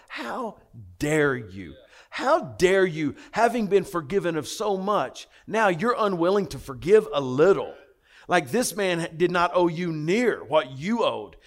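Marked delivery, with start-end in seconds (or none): 0.1-7.7 raised, slowed "how dare you"; indignant rebuke. Pretend. Preacher rebuking the unforgiving servant, indignant and raised. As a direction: scold the ungrateful servant in your head. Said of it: "I get so angry".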